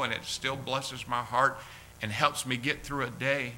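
earnest pastor's prayer, slowing on key words; heartfelt closing prayer from the pulpit. Acted. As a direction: pray it tenderly to the congregation.

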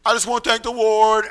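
Denny's testimony. Retold or imitated. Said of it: "Denny always gave a testimony".

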